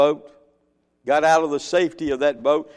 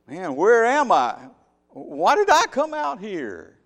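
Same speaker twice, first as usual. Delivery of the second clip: Peter growing uneasy; 3 semitones higher than usual. Retold or imitated. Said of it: "he realized".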